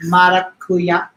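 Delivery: maracuya, slow, stress on last A; Spanish pronunciation. Shown as a demonstration. Explaining the Spanish word for passion fruit, maracuya with accent. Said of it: "acentos on the last A".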